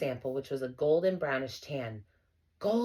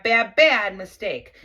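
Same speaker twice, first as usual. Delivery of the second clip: bad, bad drawn out slow and loud; slow warning emphasis; 4 semitones higher, 10 dB louder, slower than usual. A narrator's reading. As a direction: lean hard on each bad, slowly. Narrator stresses danger.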